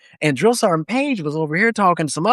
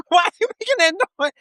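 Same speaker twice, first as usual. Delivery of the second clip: high, fast, exasperated demand; mock sergeant yell; 14 semitones higher, faster than usual. Drill sergeant questioning squealing recruit, rapid mock yell. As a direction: fire it off as a pitched-up mock reprimand.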